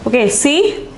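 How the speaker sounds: ordinary talk, nothing marked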